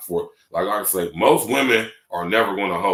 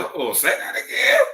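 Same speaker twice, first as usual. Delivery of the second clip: high-pitched retold reaction; acted amazed request; excited interruption; 8 semitones higher, 3 dB louder than usual. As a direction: cut in, rising high on the last word. Acts out his excited reaction.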